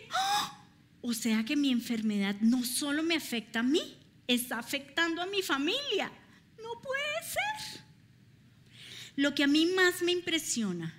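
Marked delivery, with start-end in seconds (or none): 0.1-7.8 retelling the moment of breaking, near tears; tearful dismay. Retold or imitated. Realizing her illness hurts family.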